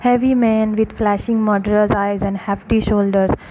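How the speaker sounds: slow, careful read-aloud for a class; story narration. A narrator's reading. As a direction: read each phrase slowly for students. Rereads story line.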